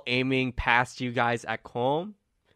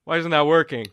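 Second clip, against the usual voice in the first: baffled; 6 semitones higher, 9 dB louder, faster than usual. Acted. Tori baffled spell fails.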